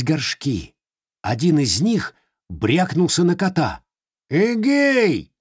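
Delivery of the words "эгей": high, startled cat cry. Acted. (кот вскрикивает)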